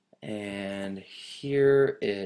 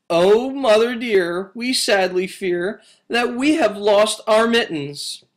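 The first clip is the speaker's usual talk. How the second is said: kitten voice; 9 semitones higher, 6 dB louder than usual. Acted. Kittens confess to mother.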